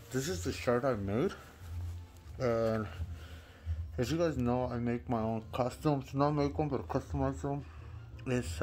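muffled, talking through a mask; through a face mask. Real, not acted. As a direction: speak from inside a latex mask. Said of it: "so I'm talking through the mask right now".

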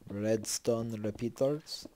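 slow, deliberate stretch of Redstone repeaters; own accent. Real, not acted. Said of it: "That's why, that's my accent".

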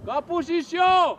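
long drawn-out call. Real, not acted. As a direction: stretch it slowly across the pitch. Coach calls option to players. (elnyújtott kiáltás)

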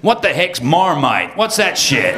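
puzzled mock American voice; lightly voiced confused Yanks; baffled Americans. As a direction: play the clueless locals asking. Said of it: "They was going".

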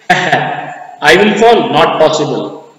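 laughs, slow and teasing, as the overconfident dad; teasing mock laugh. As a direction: scoff at the very idea of falling, with a laugh. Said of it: "Teasing way".

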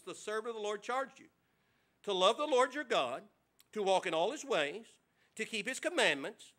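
measured King James reading; scripture reading. Acted. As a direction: read the verses with reverence. Reads scripture aloud to congregation.

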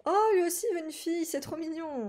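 high-pitched adoring gush; high squeal softening into a coo; cooing delight. Real, not acted. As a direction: melt at how cute it is. Cooing over game character's wish.

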